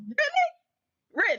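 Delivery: high, drawn-out Really; long disbelieving Really; incredulous. Real, not acted. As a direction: stretch it in disbelief. Incredulous challenge.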